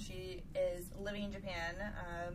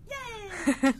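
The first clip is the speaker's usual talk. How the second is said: high, loud happy cheer; excited cheer; 10 semitones higher, 13 dB louder than usual. Real, not acted. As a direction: cheer it out, big and bright. Cheering the show intro.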